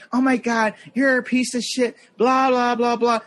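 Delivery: high-pitched mock rant; imitated flipping out. Woman ranting at the handicap-spot parker, imitated high-pitched tirade. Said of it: "she started flipping out".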